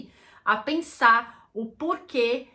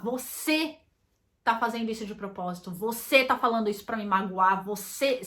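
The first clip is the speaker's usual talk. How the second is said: quick, pointed blaming tone; mild mock accusation, rushed on the middle line; accusatory. Shown as a demonstration. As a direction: fire the blame straight at your partner. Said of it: "Não é de uma forma acusatória".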